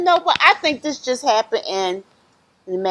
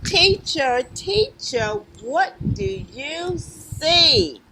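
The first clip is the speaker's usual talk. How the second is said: rhythmic picture-book refrain; reading to children; 7 semitones higher, much slower than usual. Acted. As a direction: chant it invitingly for little listeners.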